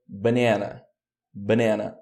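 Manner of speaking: "banana" with the middle syllable carrying the stress. Shown as a demonstration. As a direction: stress the middle of "banana", reduce the other vowels. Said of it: "Onde tá o stress?". ("banana" com a sílaba do meio tônica)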